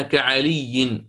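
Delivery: كعلي said very slowly; slow comparison word. Shown as a demonstration. Teacher gives a parallel example, slowly. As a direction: draw out كعلي like وكأي. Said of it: "كأنها".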